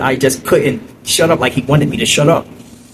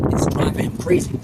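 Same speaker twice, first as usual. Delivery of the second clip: "it's driving him crazy" dropped to a whisper, softer; hushed aside; 5 dB quieter than usual. Retold or imitated. Aside before repeating it.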